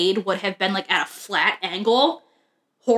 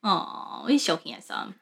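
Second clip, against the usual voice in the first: soft, low cooing; tender pet talk; 4 semitones lower, 7 dB quieter, slower than usual. Real, not acted. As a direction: murmur fondly to the dog. Fussing over the dog.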